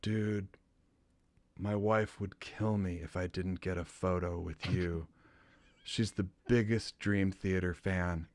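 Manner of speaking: quiet, hesitant imitation of a fan; sheepish. Shy fan asks for a photo, imitated sheepishly. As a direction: ask softly, like an embarrassed fan. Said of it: "he walks up all sheepish".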